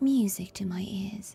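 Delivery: breathy voice with vocal fry. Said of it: "a little bit of vocal fry".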